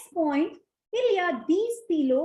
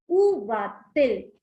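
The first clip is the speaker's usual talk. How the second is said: slow model question; 4 semitones lower, much slower than usual. Shown as a demonstration. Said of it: "the word becomes va-t-il".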